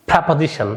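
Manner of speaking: preposition with a "pra" start; model pronunciation. Shown as a demonstration. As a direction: say preposition as "prapozishon". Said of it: "try to say with me".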